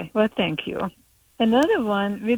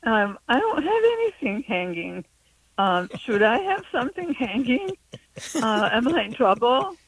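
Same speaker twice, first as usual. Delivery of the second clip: higher, hesitant acted worry; mortified; 4 semitones higher than usual. Newcomer with little English fears trouble, acted mortified. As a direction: retell your bewildered questions, pausing between them. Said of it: "I was mortified".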